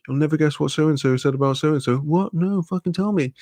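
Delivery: mock-eager gossip, pitch climbing into the reply. Coworkers swapping gossip at work, mock-eager. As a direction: act out a juicy gossip swap. Acted workplace gossip exchange.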